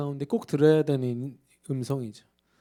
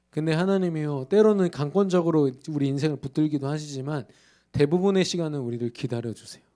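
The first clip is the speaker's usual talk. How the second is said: ordinary delivery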